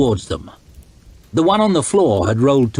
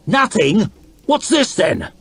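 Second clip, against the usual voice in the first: incredulous; 5 semitones higher than usual. A narrator's reading. Logan challenging her.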